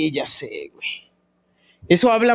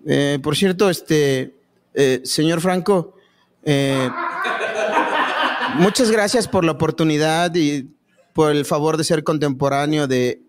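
halting grateful speaker; 2 semitones lower than usual. Acted. Acts halting speech to señor Franco.

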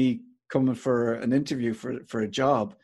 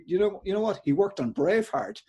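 high-pitched, proud announcement, imitated; delighted with himself; 8 semitones higher than usual. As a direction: play someone thrilled to share big news. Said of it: "he was delighted with himself".

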